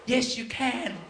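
lightly acted weepy assent; retold tearful reply. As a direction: imitate a man answering through tears. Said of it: "he bursts into tears again and he goes".

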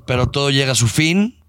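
slow, solemn show announcer. Acted. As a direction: open the segment like a host. Announces the season's end. (voz de presentador solemne)

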